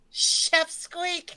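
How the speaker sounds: squeaky high-pitched cartoon voice. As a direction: say it in a tiny squeak. Silly name said twice.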